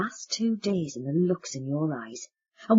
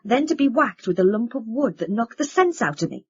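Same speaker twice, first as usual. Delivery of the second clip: louder, raised furious voice; angry accusation; 4 semitones higher, 8 dB louder than usual. Acted. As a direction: hurl it at them in anger.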